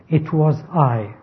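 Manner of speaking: slow, with the weight landing on "I"; stress on I. Acted. The Lord declares himself creator, emphatic "I". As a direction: make "I" the emphatic word. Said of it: "is emphatic. It's an emphatic pronoun".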